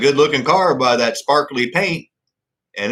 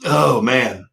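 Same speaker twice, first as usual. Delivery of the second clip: choking on drink; 2 semitones lower, much slower than usual. Real, not acted. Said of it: "Oh, that went down the wrong pipe".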